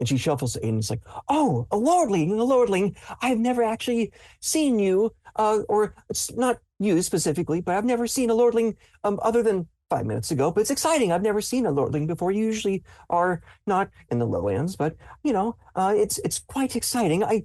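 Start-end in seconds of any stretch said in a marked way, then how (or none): 1.3-17.2 anxious, rambling, nervous high-pitched character voice. Voicing a character who is excited to meet a lordling: nervous character voice. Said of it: "in their nervous".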